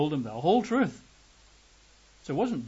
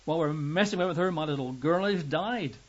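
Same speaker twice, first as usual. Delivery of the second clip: bitter; 3 semitones higher than usual. Pretend. Father resents Jesus stopping for the woman, bitter. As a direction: grumble at the delay with bitterness. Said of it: "perhaps, some bitterness".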